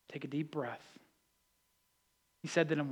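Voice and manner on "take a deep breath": very soft, low and calming; almost under the breath; hushed. Real, not acted. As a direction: ease the listeners into stillness. Preacher slows room after calm.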